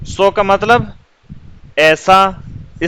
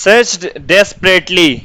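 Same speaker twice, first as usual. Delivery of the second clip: slow dictation; much slower than usual. Shown as a demonstration. Dictating slowly.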